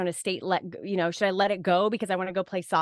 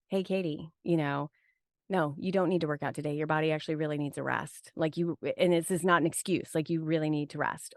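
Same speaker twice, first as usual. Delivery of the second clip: gentle inner voice; 3 semitones lower than usual. Retold or imitated. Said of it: "Mine whispers".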